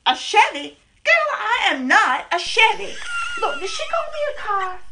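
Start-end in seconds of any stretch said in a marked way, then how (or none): 1.0-2.9 offended. Acted. Offended, insulted by rival. 3.4-4.8 high shrill wail of indignation, fast; outraged shriek. Acted. To the doctor about the rival, a high outraged wail.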